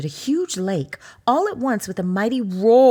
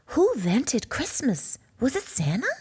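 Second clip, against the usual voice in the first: lightly voiced curious cub, a bit higher; a small child asking mama; curious little cub voice; little bear cub; 4 semitones higher than usual.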